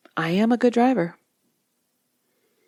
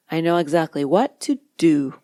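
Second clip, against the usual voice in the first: to do stressed with a fall. Shown as a demonstration. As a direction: lean on the words to do. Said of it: "putting emphasis on the appropriate word".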